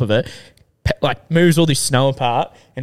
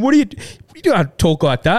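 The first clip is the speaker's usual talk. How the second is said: mock outrage; 6 semitones higher than usual. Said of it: "all these people are going".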